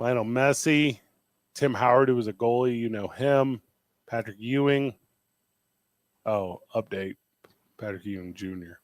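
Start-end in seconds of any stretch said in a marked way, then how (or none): 6.3-8.8 very quiet, low, deflated, disappointed voice. Listing famous Globetrotters guests, the speaker gives an update, sounding disappointed. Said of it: "Why do you sound so disappointed?".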